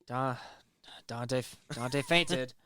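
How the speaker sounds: dramatic sigh. Pretend. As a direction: heave a tired sigh through it. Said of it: "Third time".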